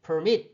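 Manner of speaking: permit stressed on MIT; stress on last syllable. Shown as a demonstration. Teacher showing final stress, per-MIT. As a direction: lean on the second syllable of permit. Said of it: "요 모음의 강세가 있기 때문에".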